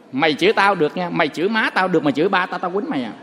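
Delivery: low-pitched imitation of a husband's warning; retold warning. Husband warns his cursing wife not to insult his father, low mock threat.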